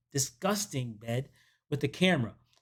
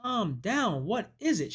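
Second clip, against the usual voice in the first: higher-pitched retold plea to calm down; mock exasperated soothing; 5 semitones higher, slower than usual. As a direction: lightly act out a man settling someone. Man tries to calm frantic woman.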